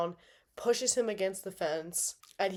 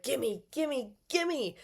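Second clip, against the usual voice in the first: greedy fighter; 5 semitones higher, much slower than usual. Retold or imitated. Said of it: "He's like".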